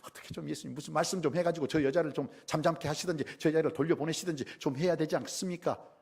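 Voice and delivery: acted pleading irritation; fed-up disciples. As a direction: nag as if you can't stand the noise any longer. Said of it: "듣다 듣다 못해서 제자들이".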